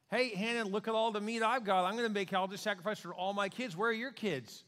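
mocking, sing-song taunt; taunting rival. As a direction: needle her about her children. Peninnah taunting Hannah, acted.

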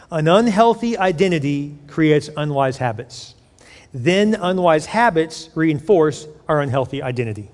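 measured, deliberate statement for note-takers; slow dictation. Shown as a demonstration. Preacher dictating the key phrase to write down, slowly. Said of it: "I'm gonna say it slowly".

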